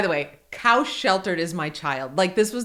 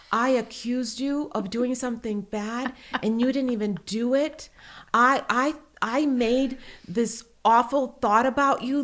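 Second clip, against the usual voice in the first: lightly imitated upset little boy; halting, earnest mock remorse; tearful child's apology; 3 semitones higher, slower than usual. Son confesses an awful thought to mom, mildly tearful. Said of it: "looked like he was gonna cry".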